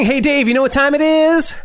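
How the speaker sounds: high, hyped-up lead-in to a bit; excited call-out. Pretend. Host cueing Dave for sponsor time, excited call-out.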